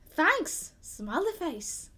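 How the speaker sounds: high, drawn-out Scottish sign-off; attempted Scottish accent. Shown as a demonstration. Co-host ending the listener's letter, attempted Scottish accent. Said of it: "oh, that's the Scottish accent".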